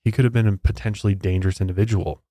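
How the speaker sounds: scripted storytelling with measured pauses; true-crime narration. Acted. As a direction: read the case out as a story.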